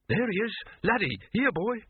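very high-pitched calling voice; trainer calling dog. A narrator's reading. Trainer calling Laddie from the alley's end, calling out. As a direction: call out for a lost dog.

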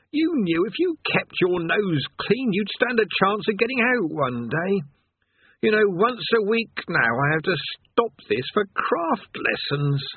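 a tired damned man sighing over his lot; weary chained man. Acted.

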